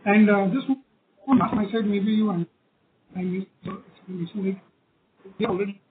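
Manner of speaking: muffled, as through a covered mouth. Real, not acted. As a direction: hand over mouth, dull and muffled. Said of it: "you're sounding muffled".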